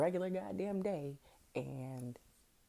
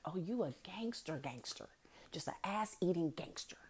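teasing whispered aside; hushed mocking praise; 3 dB quieter than usual. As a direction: whisper it like a secret joke. Mocking quote about the man.

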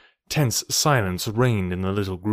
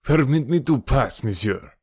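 higher-pitched, petulant request; 3 semitones higher than usual. A narrator's reading. Man trying to slip past Tarzan, petulant. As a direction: press petulantly to get by. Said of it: "exclaimed the other petulantly".

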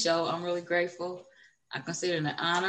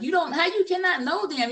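high, louder incredulous retort; retold indignant disbelief, pitched way up; mock upset; 10 semitones higher, 5 dB louder than usual. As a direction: act out being put out and baffled. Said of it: "I get upset because everybody don't".

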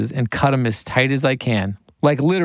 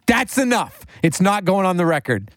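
raised, decisive verdict; imitating a singer; 7 semitones higher than usual. The singer deciding to drop the song, lightly high firm voice. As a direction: call it final, pitched up. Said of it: "he's like".

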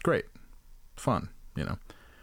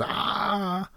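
high yelp at ordinary volume; mock a top-of-the-lungs yell; imitated yell; 12 semitones higher than usual. Comic demonstrating a couple's fights, mock high yell. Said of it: "yelling at the top of your lungs".

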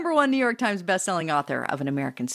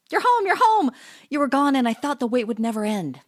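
high, loud, overjoyed cry; excited dog greeting; 3 semitones higher, 4 dB louder than usual. Acted. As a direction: burst out with joy at reunion. Dog greets returning owner.

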